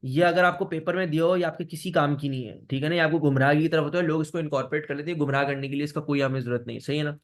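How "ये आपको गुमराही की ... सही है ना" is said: choppy breaking-up audio; glitchy robotic call. Real, not acted. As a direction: voice cutting out over bad internet. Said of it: "sir, आवाज कट रही है".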